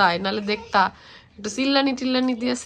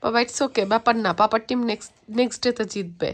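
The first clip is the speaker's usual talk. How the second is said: low, reassuring parent voice; gentle consoling; 3 semitones lower than usual. Real, not acted. Parent consoling child over papa's team losing, gentle reassurance.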